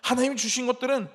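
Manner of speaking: mock grievance, listed insistently; retold grumbling. Preacher mimicking Israelites complaining about food and water, insistent grumble. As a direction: imitate piled-up complaints. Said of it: "막 하면서 불평합니다".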